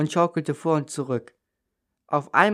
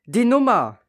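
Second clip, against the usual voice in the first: high, louder burst of recognition; sudden realisation; 8 semitones higher, 4 dB louder than usual. A narrator's reading. Child on the swing suddenly remembers the number, excited burst. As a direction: blurt it out as the idea hits. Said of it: "schoss es mir durch den Kopf".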